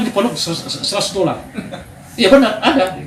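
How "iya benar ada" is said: laughing. Real, not acted. Laughing about hug service.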